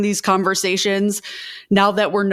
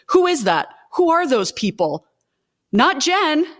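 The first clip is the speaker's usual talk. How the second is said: fired up; 6 semitones higher than usual. Real, not acted. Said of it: "I'm so fired up".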